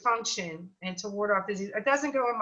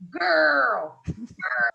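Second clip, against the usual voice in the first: excited calling out; 2 semitones higher, 5 dB louder than usual. Retold or imitated. Friend on the phone after tasting the food, loud excited cry. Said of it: "She called me and said".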